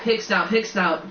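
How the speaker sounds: slow, panting password; out of breath. Acted. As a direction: gasp it out breathlessly. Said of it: "panted Harry".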